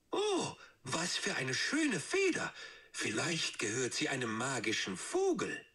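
put-on a young fox thrilled by a golden feather; excited little fox. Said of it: "rief Finn aufgeregt".

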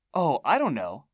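high, loud crone musing; hag voice. Acted. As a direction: wonder aloud like an old witch.

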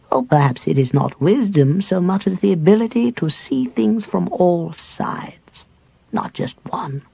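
put-on old cleric at peace with dying; frail dying cleric. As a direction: reminisce gently facing death. Cleric speaks, fading to whisper.

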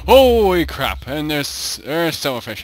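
alarmed holy crap; startled yell. Real, not acted. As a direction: yell it as the bugs pour out. Silverfish swarm appears.

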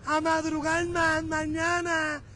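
laughing through the words, slow. Real, not acted. Vlogger teasing commuters while laughing. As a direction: laugh while you tease them. Laughing after joke to drivers.

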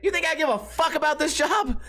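hammed-up rude employee; fed-up worker, bigger. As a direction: throw it at a coworker with attitude. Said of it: "Like, repeating the quote".

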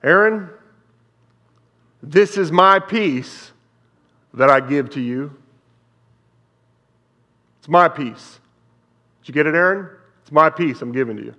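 the Lord's voice, preached out loud. Retold or imitated. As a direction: proclaim it as the Lord's own words. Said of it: "the Lord said".

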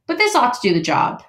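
upbeat beaver, a bit quick. Acted. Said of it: "said Mister Beaver".

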